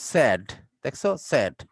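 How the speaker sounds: Said said as sed, short e; pronunciation demo. Shown as a demonstration. Teacher models Said for students, careful pronunciation. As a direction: model Said as sed, not sayed. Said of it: "দেখো উচ্চারণটা".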